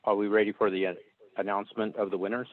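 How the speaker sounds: phone-line voice, thin and narrow; over the phone. Real, not acted. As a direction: speak as if through a phone call. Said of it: "I'm on the phone".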